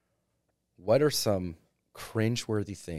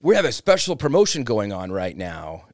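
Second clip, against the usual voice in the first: salesy DJ pitch; 6 dB louder than usual. Retold or imitated. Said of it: "doing sales at your wedding on the mic".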